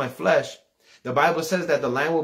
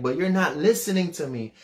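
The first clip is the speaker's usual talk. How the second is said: put-on raised, frustrated teen protest; 4 semitones higher than usual. Teenage son preaching to his mom, frustrated. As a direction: plead to be heard, pitch climbing. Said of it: "getting so frustrated 'cause they're not listening".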